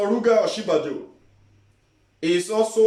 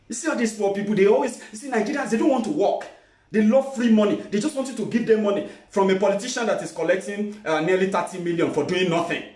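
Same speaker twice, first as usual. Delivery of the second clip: higher, fast, sneering mock voice; mocking snobbish politician; 4 semitones higher, faster than usual. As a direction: parody a smug rich politician. Mocking rich politicians talking.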